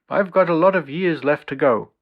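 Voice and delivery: put-on approximated Dutch accent, voice lifted; heavy Dutch accent. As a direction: quote him in an imitation Dutch accent. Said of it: "in his heavy Dutch accent".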